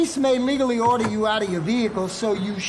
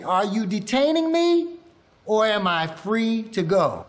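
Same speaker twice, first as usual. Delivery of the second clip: model line for repeating. Shown as a demonstration. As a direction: call it out for the class to echo. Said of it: "Everyone repeat after me".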